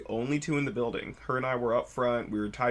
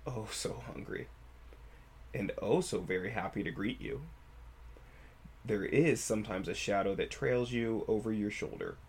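storytelling voice. Shown as a demonstration. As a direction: tell it like a campfire horror tale. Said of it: "Storytelling voice".

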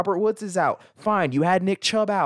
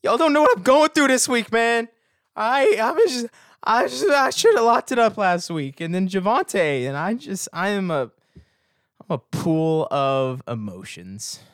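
high, loud emotional outpouring; overwrought venting; 6 semitones higher, 3 dB louder than usual. Real, not acted. Podcaster venting about his rough week, high and overwrought. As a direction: plead for sympathy, voice pitched way up.

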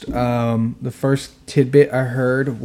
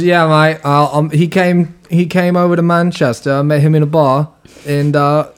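put-on British accent, pitched up; Russell Brand; 3 semitones higher than usual. Prankster telling his cover story to partygoers, mock British accent. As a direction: play a chatty Manchester bloke. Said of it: "you do sound like Russell Brand".

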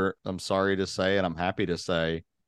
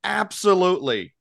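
lost guide voice; 10 semitones higher, 4 dB louder than usual. Retold or imitated. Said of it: "he says to himself".

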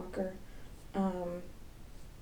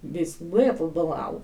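lightly mocked Russian accent in blah blah; a hint of Russian in the babble; mock Russian gibberish; 2 semitones lower than usual. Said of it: "Russian would be like".

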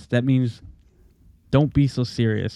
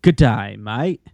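put-on Australian accent; slower than usual. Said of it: "a phrase from another country".

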